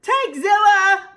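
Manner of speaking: high, loud terrified shriek. Acted. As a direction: scream at the monster. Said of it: "Pencil shrieked".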